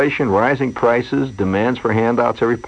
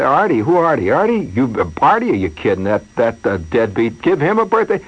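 disbelief. Retold or imitated. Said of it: "there's a moment of disbelief".

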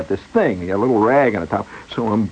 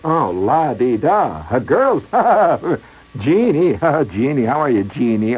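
teasing laugh; 4 semitones higher than usual. Retold or imitated. Clerk teases, laughing.

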